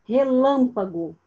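Relâmpago said slowly, leaning on LÂM; stressed syllable demo. Shown as a demonstration. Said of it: "Qual é a sílaba tônica".

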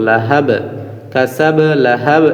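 "কাসাব" and "লাহাব" closed on a vowelless b; "লাহাব" without any case ending; sukun endings. Shown as a demonstration. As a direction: end "লাহাব" on a stopped b. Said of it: "সাকিন দিয়ে উচ্চারণ করব".

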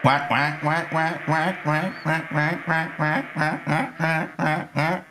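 steady run of imitated quacks; duck quacking. Streamer imitating the ducks on the lake, duck quacking.

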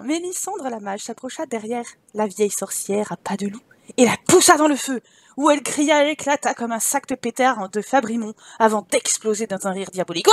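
animated fairy-tale narrator; story narration. Acted. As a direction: tell the witch's end dramatically. Reads game story aloud. (narration de conte animée)

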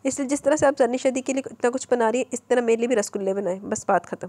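mildly stubborn, insisting; a touch of childish obstinacy. Acted. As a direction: dig in your heels, lightly. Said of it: "ज़िद्दी लहजे में बोली".

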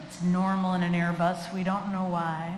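calm reassurance. Retold or imitated. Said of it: "I might put my hand on their hands like".

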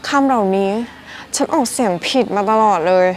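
acted "hey!" of surprise, easing off; mild pretend shock; mock astonishment. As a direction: play a learner mildly stunned by the discovery. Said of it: "ใครทึ่งอึ้งไปเลยว่า".

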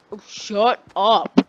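slow, loud, acted brush-off; dismissive telling-off. Classmate snaps back at the kid's protest, dismissive.

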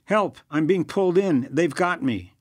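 high, loud terrified call; panicked cry for help. Acted. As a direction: scream for help as you're dragged away. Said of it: "Yakov's voice came over the speaker".

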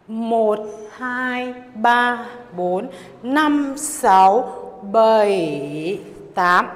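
punchy dance-class beat count. Acted. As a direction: call the beats out to the music.

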